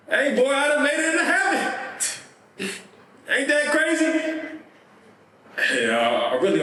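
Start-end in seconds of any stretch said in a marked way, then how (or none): 0.1-4.1 high-pitched, amazed exclamation; excited news. Acted. Rico tells his twin he made it into heaven, excited. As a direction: share astonishing good news, voice pitched way up. Dead friend shares joyful news.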